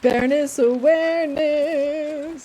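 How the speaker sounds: loud, high, drawn-out cheer; playful call-out. Real, not acted. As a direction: stretch it out like a slow, loud fanfare. Calling out a playful chant to viewers.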